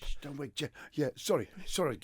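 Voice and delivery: hushed, low whisper; sneaking in late. Pretend. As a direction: creep in quietly. Hushed raid role-play.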